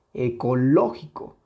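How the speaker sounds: ecológico with a marked LO; stress on tonic syllable. Shown as a demonstration. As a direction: hit the LO of ecológico. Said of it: "claramente está aquí". (ecológico con intensidad en LÓ)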